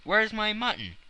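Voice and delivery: high, loud call for food; starving man demanding his dinner. A narrator's reading. Hungry traveler calls for his mutton, high and loud.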